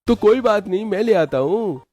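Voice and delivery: put-on high boyish voice, insisting; young brother-in-law. Yash insists on helping his sister-in-law, high boyish voice. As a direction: press the offer like a keen boy.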